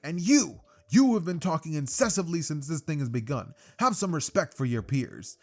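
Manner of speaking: hammed-up formal telling-off; indignant scolding. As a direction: lecture them with mock indignation. Ida scolding, acted.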